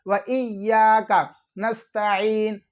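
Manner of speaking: slow नस्तईन with an ain before the long "een"; drawn-out correct reading of नस्तईन with ain; ain, not h. Shown as a demonstration. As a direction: separate व इय्याका clearly, no h in नस्तईन. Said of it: "यहाँ पर ऐन है".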